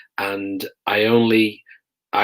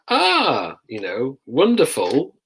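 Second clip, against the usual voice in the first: delighted detainee; 4 semitones higher, slower than usual. Retold or imitated. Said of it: "those who welcomed it".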